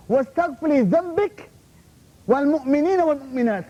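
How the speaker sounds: rapid chanted Arabic verse; quick Quran recitation. Real, not acted. Preacher quoting the Quran to the crowd, quick recitation. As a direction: rattle off the ayah in reciting mode.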